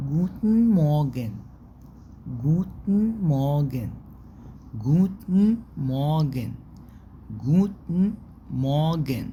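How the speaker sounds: slow "جوتن مورجن" stretched out; German demo. Shown as a demonstration. Teacher drilling morning greeting for students, slow. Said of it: "صباح الخير ومساء الخير".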